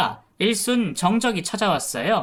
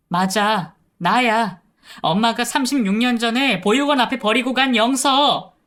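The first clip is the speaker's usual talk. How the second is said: louder, higher, choked confession; sobbing confession; 5 semitones higher, 4 dB louder than usual. Retold or imitated. Daughter revealing herself to her mother, mild sobbing. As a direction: break down as you finally say it. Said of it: "하고 오열했습니다".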